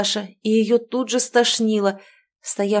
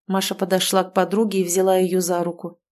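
ordinary delivery, nothing marked

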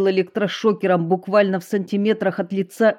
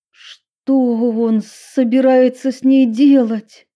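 high, loud, slow frightened question; 6 semitones higher, 7 dB louder, slower than usual. A narrator's reading. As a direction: ask it in alarm. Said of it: "испуганно спросила Эмили". (испуганный вопрос)

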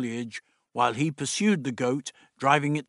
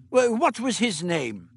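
put-on higher, brisk old doctor; 7 semitones higher, 3 dB louder than usual. The Doctor instructing Meliam, brisk fussy voice.

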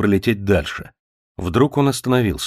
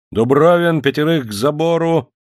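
higher and louder barked command; bellowed order; 7 semitones higher, 4 dB louder than usual. A narrator's reading. Cossack officer barking orders at his men, bellowing. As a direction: bark it like a drunk cossack officer. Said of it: "орал Харунжий".

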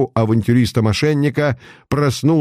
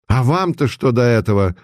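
angry; 4 semitones higher than usual. Acted. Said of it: "Злобно вырвалось у Савина".

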